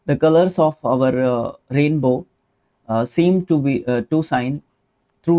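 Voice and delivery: very slow, word-by-word reading; teacher reading the test sentence slowly. Shown as a demonstration. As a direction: read it out haltingly for the class. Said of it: "reading the sentence slowly".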